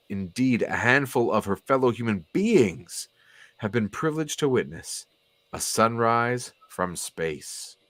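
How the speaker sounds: grand caption reading, slowing into the last phrase; story narration. A narrator's reading. Reader setting up a sunrise from space, storybook narration. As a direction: narrate with lifted, storybook wonder.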